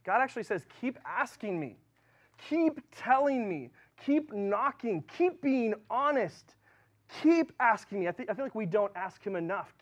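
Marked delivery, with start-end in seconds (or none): 0.8-8.1 slow, higher, tender invitation; gentle God voice. Retold or imitated. God urging his people to keep asking, gentle. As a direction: speak as a patient, loving God.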